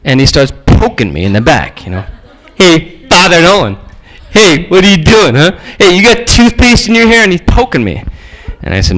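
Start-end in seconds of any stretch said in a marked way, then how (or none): 2.5-7.2 mildly mocking schoolyard taunt. Bully poking Nolan in the back in the hallway, taunting. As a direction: needle him like a pestering bully. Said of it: "he kept taunting me".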